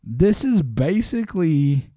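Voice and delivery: upbeat sponsor read, punchy. Acted. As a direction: sell it like a radio ad. Host reads sponsor ad.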